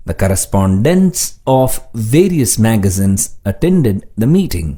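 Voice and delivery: slow, deliberate example sentences; slow dictation reading. Shown as a demonstration. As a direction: read each sentence slowly for learners.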